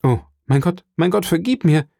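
high, pleading outburst; anguished cry. A narrator's reading. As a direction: beg forgiveness, pitch climbing. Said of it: "rief Edmond und warf sich". (flehend ausgerufen)

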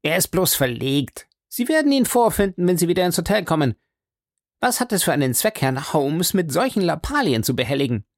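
high-pitched protest at ordinary volume; exclaiming. A narrator's reading. Doctor dismisses his friend's lost boot as trifling, exclaiming. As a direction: brush it off with mild exclamation. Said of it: "rief Doktor Mortimer".

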